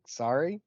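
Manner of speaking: "Sorry" said with an ah, softly questioning; American "sah-ree" for "Sorry"; understated questioning "Sorry", American vowel; plain American sorry. Retold or imitated. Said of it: "And I was like".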